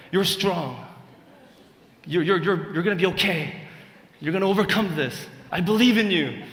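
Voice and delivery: rally her like a sports coach; pep-talk dad. Retold or imitated. Father cheering up his crying daughter in English, loud mock coach. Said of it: "백인들 멘탈리티가 제".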